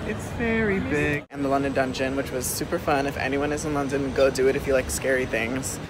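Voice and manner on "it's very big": high, slow and stretched out; exaggerated high voice. Shown as a demonstration. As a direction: say it big and high, drawn out. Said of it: "repeats with exaggerated high voice".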